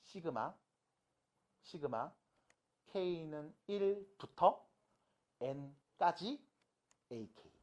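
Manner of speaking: slow, word-by-word notation reading; measured teacher's read-aloud with spaced-out phrases; reading demonstration. Shown as a demonstration. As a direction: read the formula out slowly, piece by piece. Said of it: "이렇게 읽으시면 돼".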